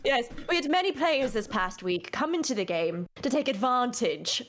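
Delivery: lightly British accent, "advantage" with a broad a. Shown as a demonstration. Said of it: "with the accent there".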